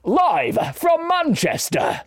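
high, slow, shouted TV announcer; X Factor voice. Shown as a demonstration. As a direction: announce it like a talent show host to the crowd. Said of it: "X Factor voice".

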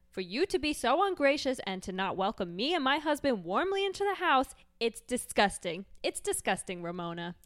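hammed-up, swooping indignation; offended housewife. Housewife berating Ramona for her welcome, theatrical offense. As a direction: scold like an affronted reality-show housewife.

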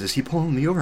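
imitated incredulous question; retold alarmed question. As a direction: ask it high, as if taken aback. Wife's worried question, retold.

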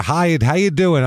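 lightly voiced, drawn-out hello; mock Dice greeting. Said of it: "and he's like".

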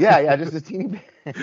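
high, squeaky little-voice echo; mock tiny voice. Mock echo of "teeny bit.

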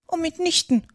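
high, indignant mouse retort; decidedly annoyed. A narrator's reading. Mouse corrects Alice, very annoyed. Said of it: "sagte die Maus entschieden und sehr ärgerlich".

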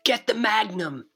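high, loud urgent yell; acted scream. Terry screaming for the magnum, urgent yell. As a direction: bark the order to grab the gun. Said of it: "screams Terry".

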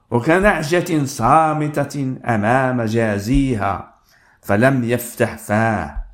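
slow, solemn reading of scripture. Acted. Preacher reading Isaiah to the congregation, slow and solemn. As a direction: read the prophecy slowly and gravely. Reads Isaiah passage aloud.

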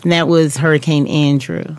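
a touch formal, non-regional interview voice; job interview voice. Real, not acted. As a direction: speak carefully, as if in a job interview. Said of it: "doing your job interview voice".

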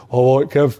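hearty greeting in a lightly imitated voice; Frank Bruno. Boxer greeting him in the players' lounge, imitated. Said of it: "That's a better impersonation".

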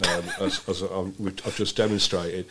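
whisper. Acted. Whispered aside after bore joke.

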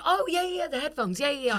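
high-pitched opening, easing down; eager recognition. Retold or imitated. Mimicking the shop girl remembering the headphones, eager recognition. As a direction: mimic an eager, rapid-fire yes.

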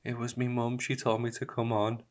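lightly voiced talent-show girl; imitated tearful contestant. Retelling an X Factor contestant about her mum, lightly imitated. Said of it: "the girl's on it and she's like".

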